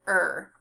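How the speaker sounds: "er" as one sound, as in fern; r-controlled vowel sound. Shown as a demonstration. Teacher demonstrates the sound of E R, r-controlled vowel. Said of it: "the sound is".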